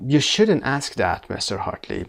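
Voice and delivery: mildly defensive, slow and measured; understated defensive demonstration. Shown as a demonstration. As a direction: object slowly, defending yourself. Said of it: "defensively به حالت تدافعی گفتن".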